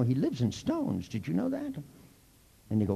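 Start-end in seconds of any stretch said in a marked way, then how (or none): 0.0-1.7 an ominous hint rising to a high question; mock mystic. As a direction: keep the seer act going. Mystical joke continued.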